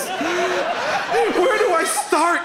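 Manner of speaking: high, rising panic over a messy bite; panicked samosa eater. Pretend. Comedian acting out a first samosa bite in mock panic.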